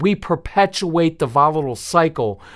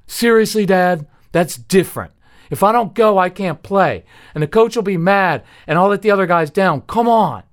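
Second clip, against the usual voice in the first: put-on whining kid; 6 semitones higher, 3 dB louder than usual. Son begging to go to rink.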